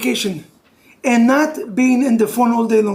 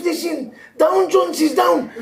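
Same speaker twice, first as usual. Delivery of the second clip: mock alarm; 4 semitones higher, slower than usual. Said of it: "And you come to your wife".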